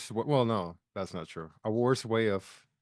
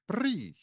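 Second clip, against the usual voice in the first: tic noise; 10 semitones higher, 5 dB quieter than usual. Retold or imitated. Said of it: "and just say".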